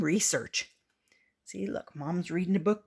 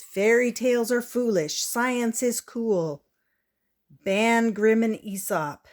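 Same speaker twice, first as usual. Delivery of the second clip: protest slogan; 4 semitones higher, 5 dB louder than usual. Acted. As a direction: chant it like a protest. Prudence's protest postcard.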